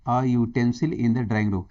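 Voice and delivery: slow read of the answer sentence; deliberately drawn-out answer reading. Shown as a demonstration. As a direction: read the answer out slowly for the class. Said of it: "option A read slowly".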